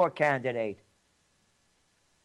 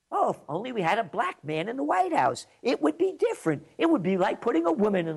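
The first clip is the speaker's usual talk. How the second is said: sarcastic mockery; 5 semitones higher, faster than usual. Sarcastic mock hope.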